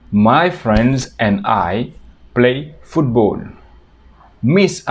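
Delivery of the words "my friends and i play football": "My friends and I play football" at a slow teaching pace; slow model sentence. Shown as a demonstration. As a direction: say it slowly for learners. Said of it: "Otro ejemplo sería".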